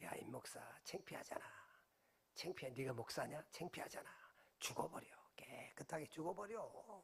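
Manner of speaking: soft, low, taunting whisper.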